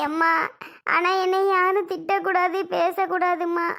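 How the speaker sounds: mild tearful plea; tearful pleading. Acted. Daughter begs mother not to scold, tearful pleading. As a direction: plead with a touch of crying. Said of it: "அவ அழுகுறத பார்த்தாலே".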